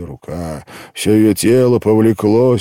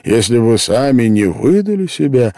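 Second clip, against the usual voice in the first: higher, louder, defending himself; insistent reproach; 5 semitones higher, 5 dB louder than usual. A narrator's reading. Man defending himself to the girl, insistent reproach. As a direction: insist firmly with raised voice.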